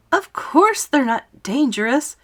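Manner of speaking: put-on high, loud boy's voice, slowed; James's indignant answer. A narrator's reading. James defends his friends to the police, indignant. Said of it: "James answered".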